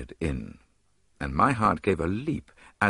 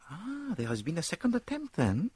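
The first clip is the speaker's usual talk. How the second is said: much higher, softer, keen; higher, quiet, intrigued Poirot; 11 semitones higher, 5 dB quieter than usual. A narrator's reading. Poirot asking about second attempt.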